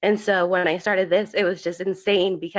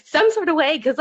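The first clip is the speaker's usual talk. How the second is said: tearful rise; 8 semitones higher, 3 dB louder than usual. Real, not acted. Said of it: "makes me feel".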